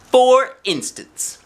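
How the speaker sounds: high, slow sing-song for instance; drawn-out singsong aside to the listening kids; playful refrain. A narrator's reading. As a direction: stretch it out up high like a teasing refrain.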